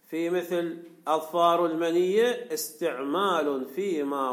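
slow, measured recitation of a classical text; formal text reading. Acted. Teacher reading the commentary to students, formal reading. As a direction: read it out slowly, phrase by phrase.

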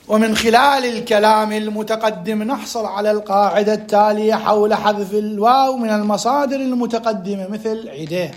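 steady formal recital; reading aloud. Shown as a demonstration. Teacher asking students to focus, formal reading. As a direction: read it out evenly for attentive students. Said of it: "ركزوا وياي".

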